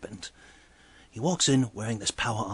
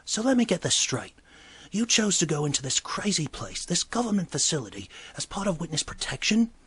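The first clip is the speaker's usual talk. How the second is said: incredulous summing-up; 7 semitones higher than usual. Retold or imitated. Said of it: "And I'm like".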